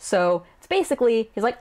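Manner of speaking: normal talking voice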